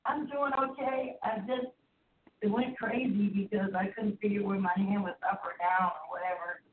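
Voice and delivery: faint and far away on speakerphone; distant phone voice through a speaker. Real, not acted. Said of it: "you sound so far away".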